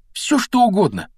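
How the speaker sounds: high-pitched eager gushing; admiring. A narrator's reading. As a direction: promise it eagerly, carried away by admiration. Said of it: "Рон всё восхищался мантией".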